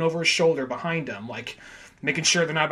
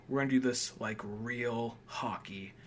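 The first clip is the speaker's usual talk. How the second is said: mock whisper; 4 semitones lower, 8 dB quieter, slower than usual. Quoting coach's plan.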